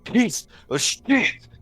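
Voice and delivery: muttered curse. Acted. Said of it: "all you're gonna hear him mutter is".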